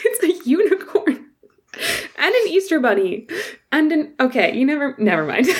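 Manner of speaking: high-pitched, words choked by held-back laughter. Picturing a unicorn coming out of an easter bunny egg, trying not to laugh. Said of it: "I'm trying not to laugh, but I can't".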